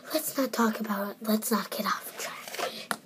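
talking while chewing gum. Real, not acted. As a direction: say it around a wad of gum. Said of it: "I have a gum in my mouth right now".

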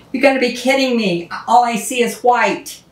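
exasperated, rushed inner thought; upset disbelief. Retold or imitated. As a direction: blurt it out as if you can't believe it. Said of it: "And I got upset".

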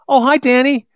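high, loud sing-song greeting; sweet cheery mom calling out hello; kind mother. Retold or imitated. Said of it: "my mother's a kind".

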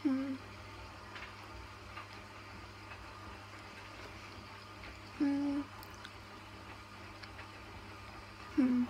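humming while chewing; closed mouth with food; mouth full, chewing. Real, not acted. Seen 1: bites snack at -12, fingers at mouth, closed-lip chewing throughout.

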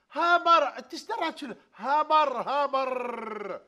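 loud, high insistence on the name; indignant shout; shouted correction. Acted. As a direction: yell it to correct him. Insisting it's a Hummer.

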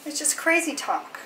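high-pitched playful dog talk; mock outrage at the dogs. Real, not acted.

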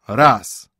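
loud gruff answer from armchairs; old men echoing the bell loudly; old gentlemen answering. A narrator's reading. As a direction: call it back like old burghers. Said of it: "odpowiedział z głębi ... fotela".

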